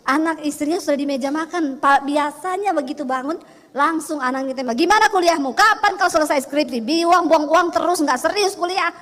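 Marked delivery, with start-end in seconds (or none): 4.7-8.9 loud scolding fatherly nagging. Retold or imitated. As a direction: scold the lazy student son. Angry father nags son at breakfast. (bapak mengomel keras pada anaknya)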